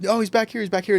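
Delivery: high, carrying call from the back of the room. Retold or imitated. Crowd in the back calls to the speaker on stage, high calling voice. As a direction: shout it across a dim hall to point someone out.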